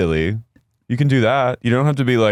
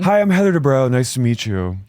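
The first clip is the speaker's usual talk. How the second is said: Heather Dubrow impression; 4 semitones higher than usual. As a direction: introduce yourself with full name. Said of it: "a first and last name introduction".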